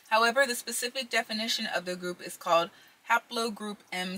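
reading aloud with a retainer in; words slurred around a retainer; wearing a retainer. Real, not acted. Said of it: "I've also got my retainers in".

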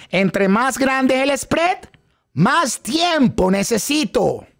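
slow, drawn-out teaching chant; slow phrase for students to echo; slow repeat-after-me line. Shown as a demonstration. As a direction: lead the class through it slowly. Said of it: "digan detrás de mí".

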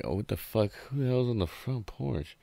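high startled shout; alarmed, who's out there. Retold or imitated. Startled people inside.

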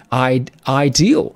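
ideal broken up slowly, i- then ideal; syllable by syllable. Shown as a demonstration. Teacher sounds out ideal for the class, slow and split. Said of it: "同学们来看一下".

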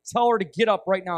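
restrained, emphatic retold command; firm repeated order. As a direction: press the order firmly, without shouting. Repeats the order after refusal.

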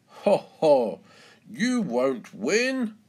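loud, scoffing ho-ho, then drawn-out taunt; mocking laugh. A narrator's reading. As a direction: jeer at the challenger with a hearty chuckle. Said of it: "laughs Mister Labrador".

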